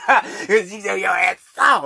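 bursting into laughter mid-line; laughing shout. Real, not acted. Mocking laugh at critics.

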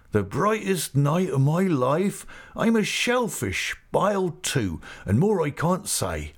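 high, swooping rustic voice; Mister Peggotty, overjoyed. Acted. Uncle telling guests of his happiest night, high and emphatic. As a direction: declare it wholeheartedly in country dialect.

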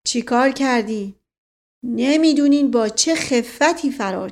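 put-on loud, triumphant old campaigner; proud, emphatic boast; boastful uncle. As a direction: crow over a routed enemy.

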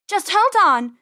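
high, loud, straining shout; urgent yell. A narrator's reading. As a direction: yell it with a great heave. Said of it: "Penny yelled".

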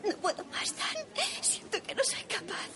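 high, broken voice on the edge of sobbing; a desperate mother falling apart; breaking down in tears. Acted. Mother breaking down in food bank.

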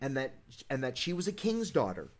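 low, measured fairy-tale reading; storybook narration. A narrator's reading. Host reading Snow White's funeral, solemn storybook narration. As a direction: read it as a solemn bedtime tale, dropping low at the end.

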